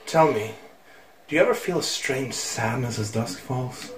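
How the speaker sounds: hushed, solemn storyteller, mildly acted; voice-acted game character. Villager speaking to Link of dusk and sadness, lightly voice-acted. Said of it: "I'm gonna do voice acting".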